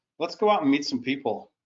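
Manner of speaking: plain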